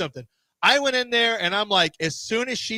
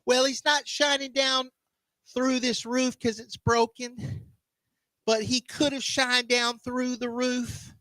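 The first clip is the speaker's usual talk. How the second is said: mock preaching; 5 semitones higher than usual. Preacher testifying to blessings of jumpers and healing, mock preaching. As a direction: testify in a sustained, raised sing-song.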